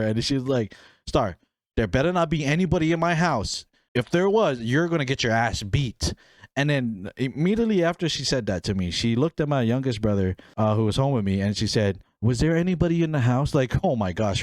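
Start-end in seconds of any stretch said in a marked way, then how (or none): 1.1-6.1 imitated angry mom, raised pitch easing back down; retold mom's threat. Mom threatening daughter over a visitor, mock stern. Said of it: "she talked to me like the devil". 12.2-13.6 sweet, higher, quick mom voice; mock angelic. Mom asking youngest brother, mock angelic. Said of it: "her voice changed to, like, an angel".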